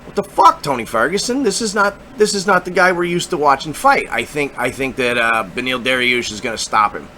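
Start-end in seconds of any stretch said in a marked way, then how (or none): 0.0-4.1 mock disbelief. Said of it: "we're all gonna be left going".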